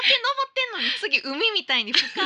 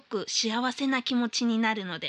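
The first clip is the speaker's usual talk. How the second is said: letter reading; 4 semitones lower than usual. Acted. Host reading listener's New Year mail on air, formal read.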